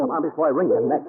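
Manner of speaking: loud, pushy and impatient; exasperated threat. Acted. Detective hauling the reluctant Duchess out, exasperated. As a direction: drag her out with a growl.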